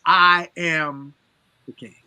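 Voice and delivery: loud, proud royal declaration; lion's roar. Retold or imitated. Lion roaring his claim as king, loud and proud. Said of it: "he roars".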